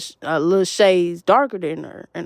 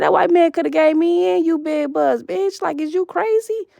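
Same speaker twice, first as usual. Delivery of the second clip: angry retort; 7 semitones higher than usual. Retold or imitated. Retold yelling at the woman.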